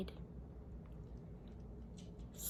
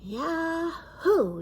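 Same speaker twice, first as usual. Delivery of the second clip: louder, higher gleeful whoop; yelling; 7 semitones higher, 8 dB louder than usual. A narrator's reading. Girl shouts with joy on the toboggan, loud and high. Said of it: "yelled Nikki".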